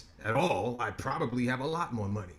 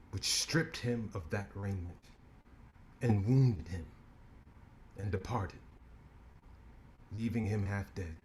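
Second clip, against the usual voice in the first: scripture reading. Acted. Reciting the parable of the Good Samaritan, solemn. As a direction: read it like a preacher at the pulpit.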